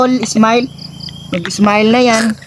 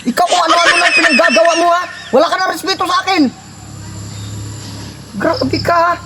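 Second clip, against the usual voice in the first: fake-angry scolding, with laughs breaking through; mock anger; 3 semitones higher than usual. Brother scolds the cousin for the prank, in half-laughing mock anger. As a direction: scold him but barely hold back laughter. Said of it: "Kunyari lang galit ako".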